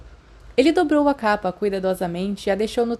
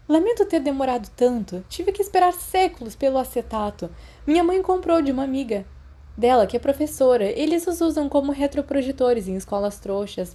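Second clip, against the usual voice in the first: higher, chatty schoolgirl voice; eager girl; 5 semitones higher than usual. Acted. Lily explains the acetate gift to Remus, high and chatty. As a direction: chatter on proudly, a bit higher.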